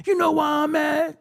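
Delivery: lightly voiced fan scolding him; imitating a fan. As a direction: play the person calling him out. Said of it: "people will come sit here and say".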